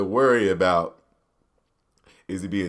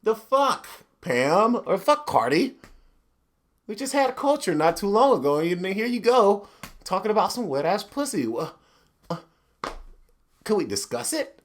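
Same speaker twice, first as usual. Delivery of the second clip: higher, prissy white-guy argument; white arguing voice; 6 semitones higher than usual. Pretend. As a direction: argue like a fussy white husband. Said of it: "white people are great at arguing".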